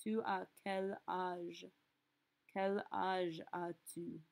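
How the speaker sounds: both questions slow and careful; slow model phrases. Shown as a demonstration. Teacher slowly repeating both questions for students. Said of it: "say everything in a French accent".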